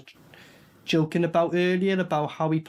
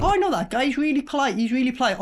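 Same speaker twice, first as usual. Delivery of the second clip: mock gushing neighbour; 5 semitones higher, faster than usual. Imitating someone praising a neighbour.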